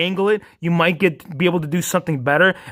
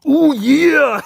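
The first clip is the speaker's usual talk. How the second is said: laughing catchphrase; 7 semitones higher, 5 dB louder than usual. Retold or imitated. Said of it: "how many times does Hero Fig say".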